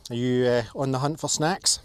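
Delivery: loud playful question to a pet. Real, not acted. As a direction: tease the dog about snacks. Asking the dog.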